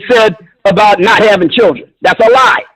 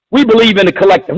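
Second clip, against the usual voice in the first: scornful repeat; 3 semitones lower, faster than usual. Retold or imitated. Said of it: "Who the fuck talks like that".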